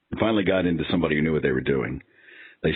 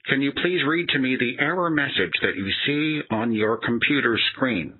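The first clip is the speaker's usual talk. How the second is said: higher, fast, overly polite call-center voice; scripted support agent; 5 semitones higher than usual. Retold or imitated. Mocking the support agent to the listeners, higher and scripted. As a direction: rattle off the apology script like a call-center drone.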